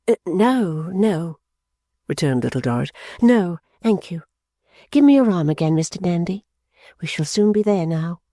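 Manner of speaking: put-on Little Dorrit reassuring old Nandy; gentle young woman.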